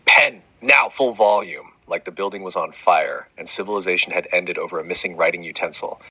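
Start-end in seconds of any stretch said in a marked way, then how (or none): 0.0-1.7 screaming. Acted. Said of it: "was to scream".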